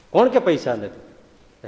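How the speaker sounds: drawn out, each word weighed; slow deliberate retort. Shown as a demonstration. Swami slowly teasing poor Mavji: slow, knowing question. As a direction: stretch it slowly, like a saint teasing.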